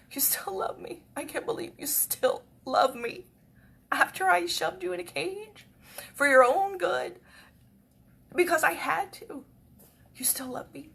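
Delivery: high, breaking into whispers; touched disbelief. Retold or imitated. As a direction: ask as if moved almost to tears. Reenacts disbelief at cats' forgiveness.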